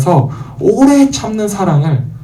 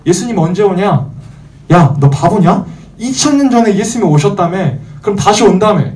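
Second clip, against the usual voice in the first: mildly jeering, raised pitch; acted-out scoffing questions; mocking taunt; 5 semitones higher than usual. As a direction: needle them like a sneering skeptic. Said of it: "이렇게 막 놀리거나".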